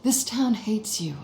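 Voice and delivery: slow whisper. Acted. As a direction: lean in and whisper it slowly. Selina tempting Bruce to leave.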